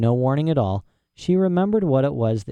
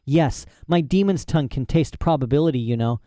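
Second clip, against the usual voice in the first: put-on eccentric old professor; 3 semitones higher than usual. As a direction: play a proud, rambling old professor. Professor boasts.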